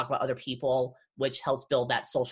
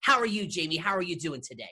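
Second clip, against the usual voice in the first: put-on Shatner character, pitched up; William Shatner on cocaine; 2 semitones higher than usual. Shown as a demonstration. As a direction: launch into an over-the-top showman greeting. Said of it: "I talk like this the entire time".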